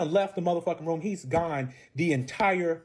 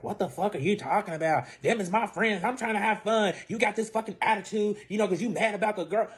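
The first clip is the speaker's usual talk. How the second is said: higher-pitched mock argument; heated retold retort, pitch raised; imitated indignation; 5 semitones higher than usual. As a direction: act out an annoyed partner arguing back. Acted quarrel, boyfriend snapping back.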